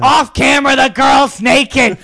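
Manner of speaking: loud slow jokey announcement; mock shout. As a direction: slowly announce it loudly for laughs. Mock movie narration shout.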